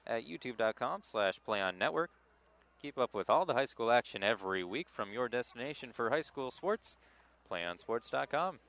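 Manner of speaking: polished sports network ad read; promo read. Acted. Commentator plugging the network to game viewers, promo read.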